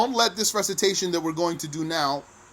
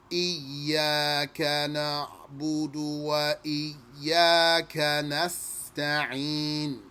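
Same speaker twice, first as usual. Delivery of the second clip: Quran recitation. Shown as a demonstration. Teacher recites Al-Fatiha for students, chanted recitation. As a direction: chant each ayah in one breath. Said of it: "according to this other recitation".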